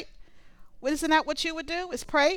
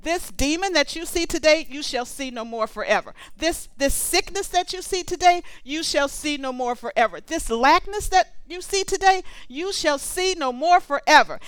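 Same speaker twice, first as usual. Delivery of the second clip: declarative prayer, raised on each opening; praying over people; 3 semitones higher than usual. Shown as a demonstration. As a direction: pray it over them, falling on forever. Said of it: "I love to pray that over people".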